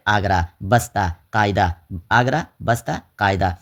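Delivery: no h sound closing آگرہ, بستہ or قاعدہ; teacher listing آگرہ, بستہ, قاعدہ with the final ہ silent. Shown as a demonstration. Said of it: "جو تلفظ میں نہ آئے".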